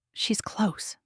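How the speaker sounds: breathless hushed whisper; soft whispered realisation. A narrator's reading. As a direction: barely voice it, awestruck. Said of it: "I whisper".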